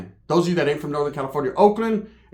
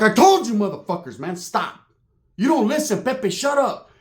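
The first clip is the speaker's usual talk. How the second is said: retold scolding; 4 semitones higher than usual. Retold scolding of his friends.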